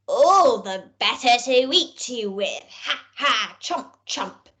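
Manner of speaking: hammed-up wolf with mock chomping; wicked wolf. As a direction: gobble her up with a playful growl. Wolf pounces on girl.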